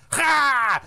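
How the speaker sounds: loud high dismissive ha; mock scoffing laugh. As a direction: scoff like the doctor. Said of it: "He goes".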